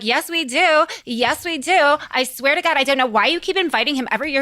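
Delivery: lightly voiced fed-up guests; exasperated party guests. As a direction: agree with comic weariness. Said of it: "they're like".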